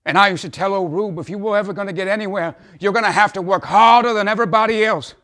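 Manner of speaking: high and loud, swelling to a shout; impassioned outburst. Acted. Father boasting of his son and confessing his own failings, impassioned. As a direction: cry it out like a fervent testimony.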